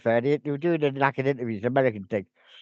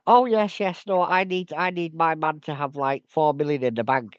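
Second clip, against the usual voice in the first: mock airhead woman. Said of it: "she's like".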